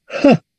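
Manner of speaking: J as a breath-like "ha" sound; Latin H. Shown as a demonstration. Teacher shows how Latin H sounded, aspirated H. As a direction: sound out J as an audible H. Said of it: "la H en latín es J".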